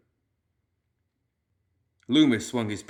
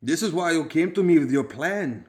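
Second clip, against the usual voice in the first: growled; 7 semitones higher, 6 dB louder than usual. A narrator's reading. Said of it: "growled Fish".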